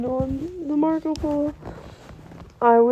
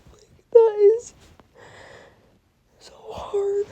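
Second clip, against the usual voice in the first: tearful whisper; 5 semitones higher than usual. Real, not acted. Telling viewers how hard it is, whispering tearfully. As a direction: let the words vanish into a whisper. Overwhelmed, voice drops out.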